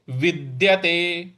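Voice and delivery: विद्यते with a light push on द्य, slowly; stress on द. Shown as a demonstration. Teacher stresses द्य for students. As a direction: lean slightly into द्य of विद्यते. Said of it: "इस पर हम थोड़ा सा बल लगाएंगे".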